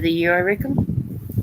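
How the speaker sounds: slow mock Southern US drawl on I reckon. Joking to chat about turning Southern US, slow and mock. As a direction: play a country bumpkin from the Southern US. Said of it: "country bumpkin U S A".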